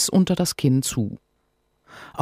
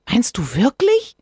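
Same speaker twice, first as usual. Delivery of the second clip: put-on hopeful child; 11 semitones higher, 4 dB louder than usual. Sophia beaming.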